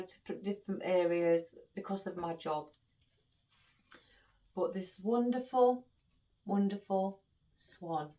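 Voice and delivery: normal talking voice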